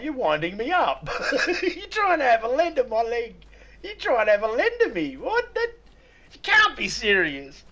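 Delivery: high, loud, laughing protest; laughing disbelief. Retold or imitated. Still answering the troll, high and loud with laughter.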